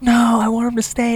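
high, drawn-up girly whine in imitation; pleading drunk woman. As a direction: mimic her protest way up high. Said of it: "And she's like".

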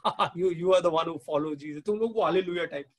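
imitated scoffer with a mock laugh; lightly acted "ha, ha" ridicule. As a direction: tease like someone making fun of believers. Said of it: "they laugh at us and they mock us".

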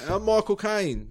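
high, slow Cockney impression; youthful Cockney film star, drawn out; young Michael Caine. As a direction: stretch out a high mock London voice. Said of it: "That's sort of young Michael Caine".

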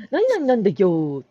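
loud mimicry of an excited explainer; excited child imitation. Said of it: "興奮してこう". (興奮して必死に説明する子の物まね)

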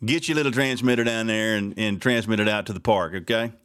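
a touch of sarcastic anger; needling the fireworks director by name; pissed off. Retold or imitated. Host telling off the fireworks director, mildly angry. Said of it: "Somebody said I sounded pissed off".

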